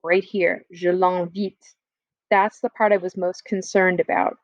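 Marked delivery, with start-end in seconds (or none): 0.7-1.8 "je l'invite" said slowly, each word clear; slow stress on je l'invite. Shown as a demonstration. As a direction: lean on "je l'invite" to show the pronoun. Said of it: "My concern was right here".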